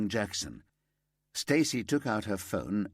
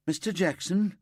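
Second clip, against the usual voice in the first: high, louder call of his name; 10 semitones higher, 4 dB louder than usual. Acted. Called out vs said firmly.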